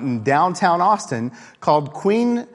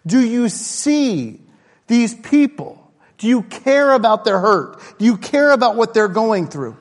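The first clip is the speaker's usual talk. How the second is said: passionate challenge; 6 semitones higher, 4 dB louder than usual. Retold or imitated. Jesus challenging the religious leaders.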